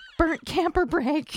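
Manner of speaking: put-on whisper. Watching a scene with Mulder, the speaker voices Scully whispering back to herself. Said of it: "whispers back to herself".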